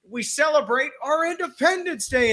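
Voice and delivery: high, pompous speech voice; proclaiming to the crowd, high and grand; mock president speech. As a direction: ham up a grand patriotic address. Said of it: "I'm standing up there on the".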